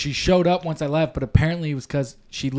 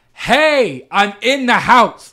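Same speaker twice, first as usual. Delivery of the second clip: calling out loud; 7 semitones higher, 6 dB louder, much slower than usual. Retold or imitated. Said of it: "I'll yell".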